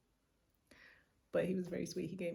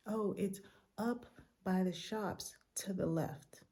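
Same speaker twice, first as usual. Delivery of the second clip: slow, friendly, a little higher; nicer helpful guy; 4 semitones higher, slower than usual. Retold or imitated. Friendlier airport worker gives directions, slow and kind. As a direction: kindly point the way, unhurried. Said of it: "who was nicer".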